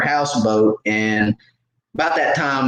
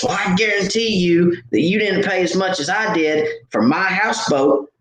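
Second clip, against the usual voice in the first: upset woman; 5 semitones higher than usual. Retold or imitated. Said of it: "you seem like you're upset".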